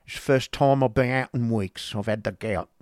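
put-on odd clerk's voice; abrupt Newman. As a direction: blurt out the excuse in character. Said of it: "abruptness of his speech".

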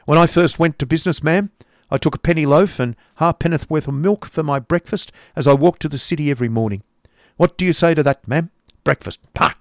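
loud, high-pitched cross lecture; testy uncle. A narrator's reading. Uncle scorning talk of breakfast, testy. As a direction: lecture testily, loud and insistent. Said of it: "said Ralph with great testiness".

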